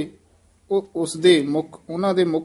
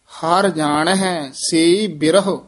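slow phrase, stop after ਬਿਰਹ; slow recitation that pauses after ਬਿਰਹ; slower than usual. Shown as a demonstration. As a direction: land and rest on ਬਿਰਹ. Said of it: "ਇੱਥੇ ਵਿਸਰਾਮ ਹੈ".

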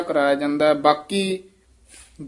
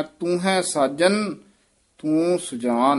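slow, with ਤੂੰ ਹੈ said as one unit; slow teaching read, ਤੂੰ ਹੈ joined; slower than usual. Shown as a demonstration. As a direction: run ਤੂੰ ਹੈ together. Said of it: "ਇਹ ਤੂੰ ਹੈ ਪਾਠ ਇਕੱਠਾ ਹੀ ਕਰਨਾ ਹੈ".

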